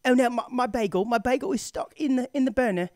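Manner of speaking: fretting in a put-on English accent. Imitating a hotel guest stuck with a bagel, British accent. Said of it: "She wasn't speaking in an English accent".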